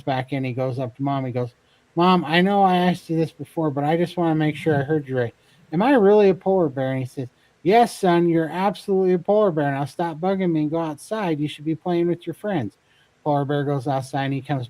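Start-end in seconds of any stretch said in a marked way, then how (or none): 2.0-6.9 lightly acted pleading kid, pitched up; insistent cub. Cub anxiously asks mom yet again. 7.6-12.8 mock-impatient parent, pitched up; exasperated parent. Fed-up parent bear sends cub away.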